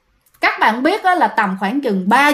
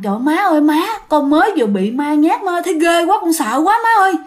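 rising higher, panicky pleading; frightened; 5 semitones higher, faster than usual. Acted. Daughter-in-law begging her mother-in-law after the ghost, frightened.

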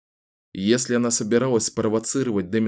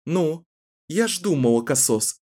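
slightly raised, contemptuous taunt; a hint of scornful defiance; 5 semitones higher than usual. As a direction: belittle him coolly. Kahlan mocks him. (Кэлен презрительно насмехается над Дэмином)

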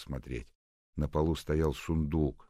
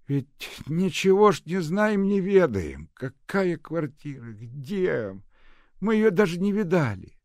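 much higher and louder, fretting; fretting old nurse; 10 dB louder, slower than usual. A narrator's reading. Old nurse worrying about the move, fretting. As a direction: complain like a worried old nanny. Agasha grumbling.

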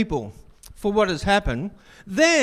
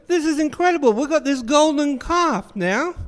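excited people; 7 semitones higher than usual. Acted. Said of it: "the people thought".

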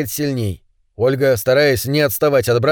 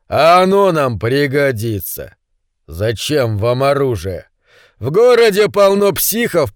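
menacing thug. Acted. Pavka demands weapons, taunting.

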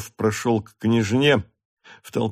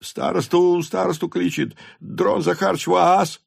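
hasty meek voices; 8 semitones higher than usual. A narrator's reading. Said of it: "торопливо покорные голоса".

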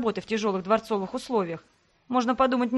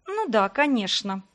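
pursed lips; slower than usual. Acted. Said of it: "Я поджала губы".

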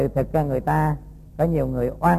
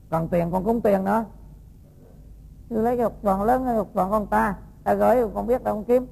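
raised voice, coaxing and insistent, pitched higher; lightly voiced pleading woman; 4 semitones higher than usual. The woman coaxes the monk to give back the diamond, lightly voiced and pleading.

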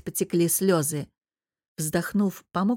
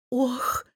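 gasped oh; 6 semitones higher than usual. Acted. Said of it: "выдохнула София".

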